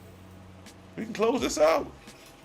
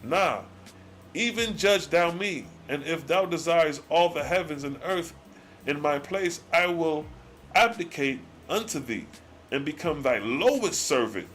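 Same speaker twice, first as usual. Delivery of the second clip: solemn scripture reading; 3 semitones lower than usual. Acted. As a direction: read the old words like a solemn sermon. Reads God's archaic speech slowly.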